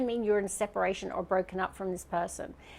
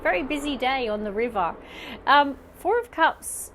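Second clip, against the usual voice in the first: yelling over helicopter; 3 semitones higher, 5 dB louder than usual. Real, not acted. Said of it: "Sorry about the helicopters today".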